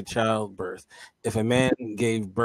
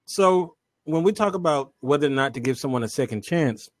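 talking while eating; words around a bite of food; mouth full; 4 semitones higher than usual. Real, not acted. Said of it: "Kente, what are you eating?".

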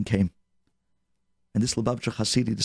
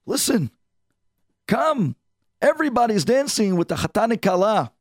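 high, pressing coax; eager urging; 8 semitones higher than usual. Acted. Hasid coaxing the old man to join the dancing, high and eager. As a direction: pull him up with eager pleading.

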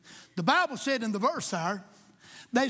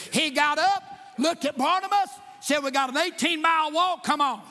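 louder, driving preaching; rising fervor; 3 semitones higher, 3 dB louder than usual. Acted. Preacher voicing Paul to Barnabas, a louder driving call. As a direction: push it forward with resolve.

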